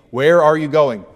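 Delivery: Peter's loud demand; insistent. Acted. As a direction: demand the answer. Question said with force.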